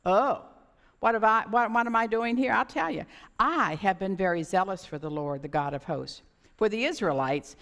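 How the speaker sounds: loud, self-righteous protest; a touch of indignant bluster, talking back to God; arrogant Elijah. Acted. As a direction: prophet boasting of his zeal and claiming he alone is left. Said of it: "you can hear the arrogance in his voice".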